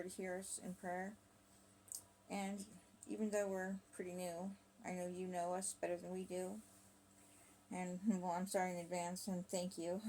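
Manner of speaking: measured, earnest prayer recital; reciting a prayer, even and unhurried; spoken prayer. Acted. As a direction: pray aloud in short phrases with long pauses.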